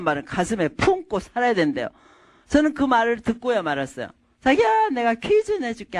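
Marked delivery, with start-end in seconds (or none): 4.4-6.0 coaxing. Acted. Wife coaxing husband with a riddle.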